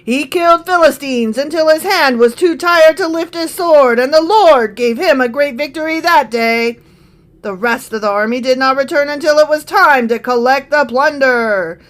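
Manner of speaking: booming announcer read. Acted. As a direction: call it out like an announcer. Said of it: "the announcer voice".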